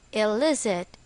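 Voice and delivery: "illicit" stressed on the middle syllable, LIS; stress on second syllable. Shown as a demonstration. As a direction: say "illicit" as a model word, punching LIS. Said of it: "The stress is on the second syllable".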